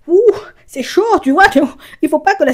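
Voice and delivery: high laughing exclaim; laughing exclamation. Real, not acted. Telling viewers it gets tense, laughing high.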